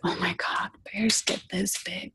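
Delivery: hushed, retold awe at sheer size; awed whisper. Hiker sees the bear's cow-sized back, awed whisper. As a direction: whisper it softly, as if the bear might hear.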